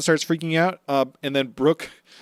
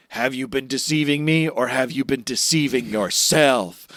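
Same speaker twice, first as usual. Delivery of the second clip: romantic Sanji. Retold or imitated. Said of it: "Romanticy Sanji?".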